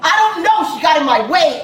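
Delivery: snapping back, loud and high; angry shout. Real, not acted. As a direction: yell it in frustration. Heated questioning, shout heard.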